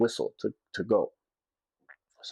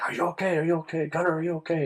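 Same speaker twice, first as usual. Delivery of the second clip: retold yelling; 8 semitones higher than usual. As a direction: call out to a shaken sailor, half-acted. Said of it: "he's yelling at me".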